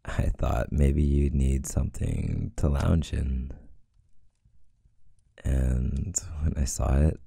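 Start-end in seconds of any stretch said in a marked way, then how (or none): 5.4-7.2 whispering. Acted. Confessing a flirty thought.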